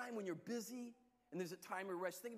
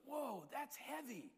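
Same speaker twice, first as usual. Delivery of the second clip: put-on drunk man; 3 semitones higher, slower than usual. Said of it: "And he goes".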